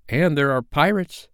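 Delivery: put-on high boyish voice, rising at the end; child luring friends to adventure; enticing boy. A narrator's reading. Peter tempting the children with pirates.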